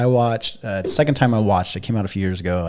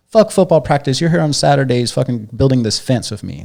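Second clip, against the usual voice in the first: stern father yelling; 3 semitones higher, 4 dB louder than usual. Retold or imitated. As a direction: lay down the law like a hard dad. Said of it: "there's a scene where he's fucking being".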